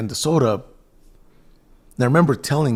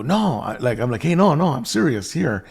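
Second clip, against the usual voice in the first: earnest insistence; 4 semitones higher, 4 dB louder than usual. Retold or imitated. Insisting he means the offer.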